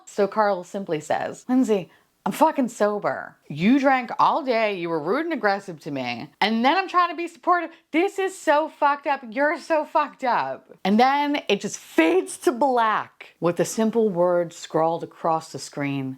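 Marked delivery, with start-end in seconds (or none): 1.5-10.7 angry retort. Retold or imitated. Carl's angry retort, voiced.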